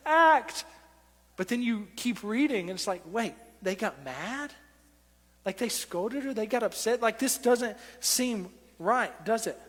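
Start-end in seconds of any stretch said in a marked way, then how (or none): 0.0-0.7 higher-pitched acted amazement; awed exclamation. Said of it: "falling on their face and crying". 3.1-9.6 acted confused double take; puzzled disbelief. Acts a baffled reader.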